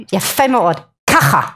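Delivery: ככה said low with a throaty kh; Hebrew word. Shown as a demonstration. Teaching the audience the Hebrew answer ככה. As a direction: give ככה a throaty Israeli kh. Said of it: "the answer to why".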